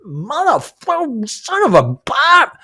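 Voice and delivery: high, slow, cursing outburst at the driver; mock rage, squeezed way up high and drawn out; retold angry outburst. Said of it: "And I was like".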